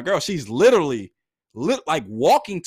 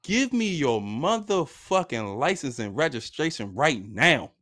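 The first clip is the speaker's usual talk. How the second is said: slow, lightly voiced officer's order; a hint of a cop laying down demands; retold police demand; 3 semitones lower, slower than usual. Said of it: "this is the first thing he say to me".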